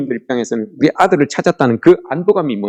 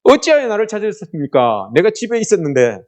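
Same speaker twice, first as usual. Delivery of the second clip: put-on cheeky child's protest; 6 semitones higher than usual. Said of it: "이렇게 하면".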